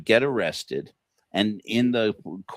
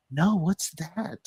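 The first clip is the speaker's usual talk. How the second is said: mock naive question; 9 semitones higher, 3 dB quieter, slower than usual. Decoy feigns ignorance.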